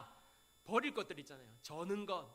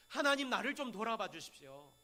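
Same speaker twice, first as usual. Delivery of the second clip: mock plea for mercy; imitated prayer; 3 dB louder than usual. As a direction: act out their insistent praying, lightly. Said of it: "이렇게 기도했다는 것입니다". (간청하는 기도를 흉내 내듯)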